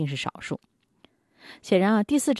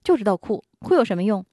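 complaining parent; 5 semitones higher, 5 dB louder than usual. Retold or imitated. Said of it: "埋怨".

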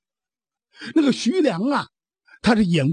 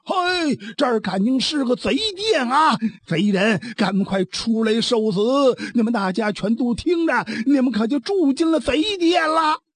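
shouting out; 3 semitones higher than usual. Acted. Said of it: "扯开嗓子这么一喊".

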